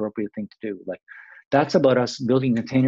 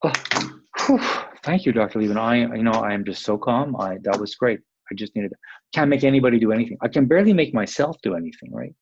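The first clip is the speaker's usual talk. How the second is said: sarcastic mock relief; 2 semitones higher, 5 dB louder than usual. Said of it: "Are you gonna go".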